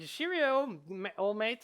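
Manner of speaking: high, loud cheery rabbit; rabbit companion. Acted. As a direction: chirp it like a game sidekick. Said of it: "he says".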